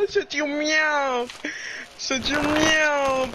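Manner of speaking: mock helium squeak. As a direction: parrot the helium voice. Mimicking the helium voice.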